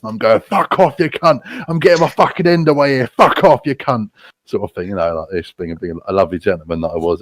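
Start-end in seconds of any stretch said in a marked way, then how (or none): 0.4-4.1 higher-pitched mock angry yell; defiant dismissal. Guest tells hostel owner to go away, mock angry defiance. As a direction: send the intruder packing, voice pitched up.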